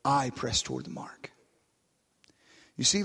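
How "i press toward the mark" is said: "I" set out first and weighted, the rest low and soft; hushed, low line leaning on "I"; stress on I. Shown as a demonstration. Preacher showing the church whose choice it is, stress on "I". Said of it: "put an emphasis on the word I".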